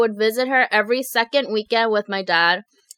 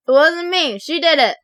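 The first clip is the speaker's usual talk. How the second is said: acted denial; 5 semitones higher than usual. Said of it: "I blamed it on my cousin's girlfriend".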